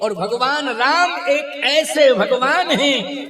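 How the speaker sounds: fervent high-pitched preaching. Real, not acted. Preacher declaiming at full pitch.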